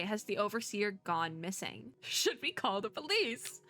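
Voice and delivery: hammed-up worry, rising and slowing on the final question; anxious. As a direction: play at being worried, lightly. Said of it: "Going back to the anxious voice".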